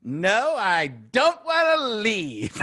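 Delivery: mild mock whine from Lovitz; reluctant guest. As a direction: drag it out like a guest who won't go. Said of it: "we kept going".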